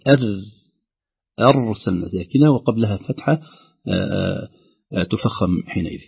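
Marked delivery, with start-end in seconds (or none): 0.1-0.4 "أر" with a thin, light ra; wrong light ra. Shown as a demonstration. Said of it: "سكون الراء مع تفخيمها، وليست". (نطق خاطئ بترقيق الراء في "أر")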